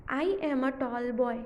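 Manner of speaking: very slow, word by word; slow revision reading; slow rereading. Shown as a demonstration. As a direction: reread slowly with the class. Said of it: "एक और बार read करेंगे हम ये".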